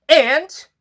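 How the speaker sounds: high, loud bored challenge; dismissive flytrap. Acted. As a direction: toss it back like a sneering monster.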